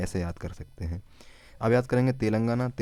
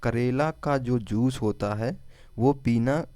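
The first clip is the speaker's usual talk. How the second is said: slow mnemonic; 2 semitones higher, slower than usual. Shown as a demonstration. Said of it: "केरल को हम रखेंगे करेला।".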